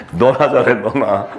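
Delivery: amused mock retort; laughing. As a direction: toss it off through chuckles. Laughs at Jesus's imagined retort. (웃음 섞어 핀잔주듯)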